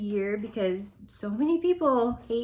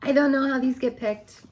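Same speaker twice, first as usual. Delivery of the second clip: losing her voice, hoarse; hoarse from yelling; 2 semitones higher, 3 dB louder than usual. Real, not acted. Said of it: "I'm losing my voice".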